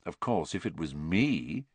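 soft, sly murmur; quiet. Acted. Malfoy quietly goading Harry across the table, soft and sly. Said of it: "he said quietly".

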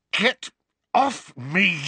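high, loud strained gasp. A narrator's reading. Boy gasping as uncle grips his throat. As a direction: choke it out while being strangled. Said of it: "Harry gasped".

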